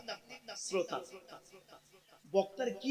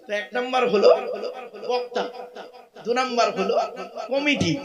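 louder, fired-up; 3 semitones higher, 6 dB louder than usual. Shown as a demonstration. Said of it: "same list, now loud".

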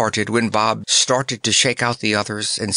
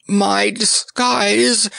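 choked; 11 semitones higher, much slower than usual. Acted. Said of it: "choked the clown".

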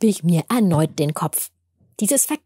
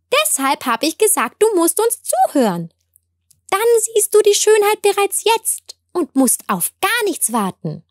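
higher small plant voice, patient; grass blade explaining; 11 semitones higher than usual. A narrator's reading. Grass blade explains beauty is already here, higher and patient. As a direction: gently repeat the lesson to the girl. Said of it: "der Grashalm".

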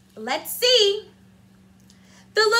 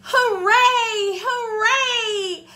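a mild cheer; 4 semitones higher, 3 dB louder, much slower than usual. Acted. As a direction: cheer them over the top. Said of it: "cried the little clown".

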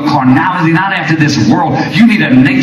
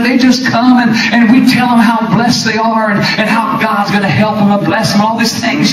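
mock gloating pastor; 3 semitones higher than usual. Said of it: "how they're just gloating".

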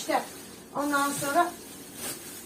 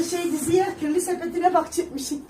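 laughing while quoting; 4 semitones higher than usual. Retold or imitated. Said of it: "Sen diyor".

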